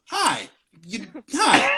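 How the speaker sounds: a little cutesy hello, slightly lifted; lightly acted sweet hi; cutesy greeting. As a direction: greet it like a small cute critter. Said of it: "a friendly small rodent that is kinda cute".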